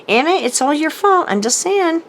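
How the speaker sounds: laughing tease. Real, not acted. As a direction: tease Anna through a laugh. Teasing blame on a friend.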